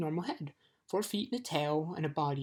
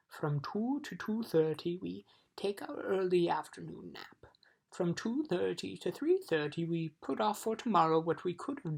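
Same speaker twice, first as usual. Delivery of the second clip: droning, sleepy little voices; lazy Lethargarian. Acted. Lethargarians telling Milo their day, lightly voiced and drowsy. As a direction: recite the schedule like dozy creatures.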